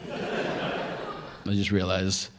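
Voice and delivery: breathless, winded delivery; out of breath. Real, not acted. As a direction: talk while catching breath. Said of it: "how winded I got".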